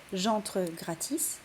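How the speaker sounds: very slow, each syllable of J'entre gratis spaced out; slow verse reading. Shown as a demonstration. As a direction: stretch it to count syllables. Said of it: "quatre syllabes". (lecture très lente, syllabe par syllabe)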